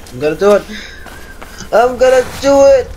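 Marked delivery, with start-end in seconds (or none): 1.7-2.9 psyching up louder. Real, not acted.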